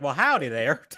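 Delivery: put-on light Southern accent; mild mock-Southern politeness; polite Southerner. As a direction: politely greet with a touch of Southern twang. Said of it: "Or a polite Southerner".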